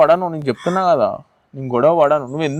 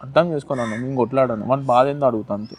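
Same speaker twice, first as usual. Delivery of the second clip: soft, soothing promise to a crying partner; calm her down tenderly; softly consoling his girlfriend so she stops crying; gentle reassurance; 3 semitones lower, 4 dB quieter than usual. Acted.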